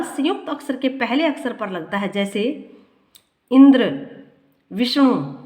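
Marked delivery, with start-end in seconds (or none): 3.5-5.3 first syllable of इंद्र and विष्णु hit hard; stress on first syllable. Shown as a demonstration. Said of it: "ई और वी पर जोर".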